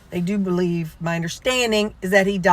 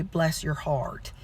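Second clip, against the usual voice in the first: soft, drawn-out pity; hushed, slow mock condolence; Southern mock sympathy; 2 semitones lower, 8 dB quieter, slower than usual. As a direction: imitate a Southern "bless your heart", slowly and quietly. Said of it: "that's how Southern people say".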